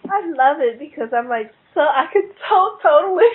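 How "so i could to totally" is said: tearful laugh. Real, not acted. Moved by the Toad story.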